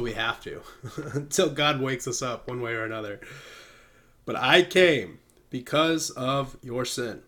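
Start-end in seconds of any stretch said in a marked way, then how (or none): 4.3-7.2 slow, solemn pamphlet reading. Acted. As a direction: read it slowly like scripture. Reads pamphlet aloud solemnly.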